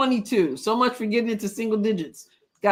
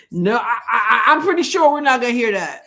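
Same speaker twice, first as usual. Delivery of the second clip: laughing; 6 dB louder than usual. Real, not acted. Laughing at a joke.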